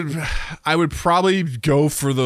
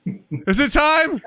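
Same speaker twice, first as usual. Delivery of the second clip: 1 creepy toilet whisper; 7 semitones higher, 4 dB louder than usual. Pretend. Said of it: "It whispers".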